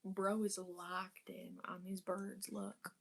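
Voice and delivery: hushed whisper, not to disturb the cat. Real, not acted. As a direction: whisper so the cat keeps watching. Quietly watching the cat.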